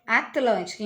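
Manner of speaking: "Atlântico" with a clear L after the T; TL bem articulado. Shown as a demonstration. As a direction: say "Atlântico" carefully, no tapped R. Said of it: "Ela não pode bater no nosso dentinho". ("Atlântico" com L claro depois do T)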